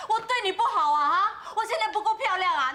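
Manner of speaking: ordinary talk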